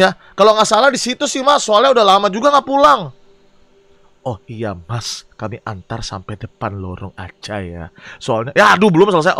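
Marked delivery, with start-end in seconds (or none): 4.3-8.5 low, slow driver voice; deep driver voice. Acted.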